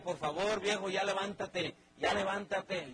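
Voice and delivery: wife begging her husband to get up, pleading. Acted. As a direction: coax the lazy husband out of bed.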